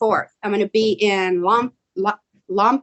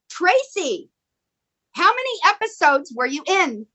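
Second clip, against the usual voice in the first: put-on Marina's accent; 6 semitones higher than usual. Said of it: "you do her accent really well too".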